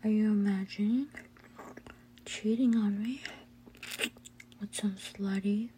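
breathy teasing whisper; ASMR whisper. Acted. Intimate whispered roleplay.

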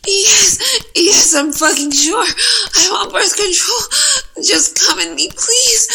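loud, breaking, tearful pleading; desperate begging. Acted. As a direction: beg through sobbing breaths. Desperate begging during climax.

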